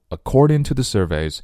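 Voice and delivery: "to the" reduced to quick "tuh-thuh"; weak form. Shown as a demonstration. Teacher modelling the phrase, weak "to the". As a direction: go lightly over "to the". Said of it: "to the，弱读".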